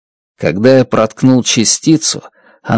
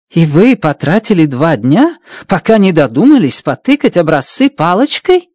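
mocking; 4 semitones higher than usual. Strat mocks his two days.

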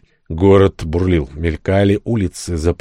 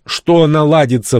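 higher, slow incredulous anger; flaring up; 7 semitones higher than usual. A narrator's reading. Narrator rounding on Дженни over her hopes, flaring up. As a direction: flare up, pitch jumping, words stretched out. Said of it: "взбеленился я".

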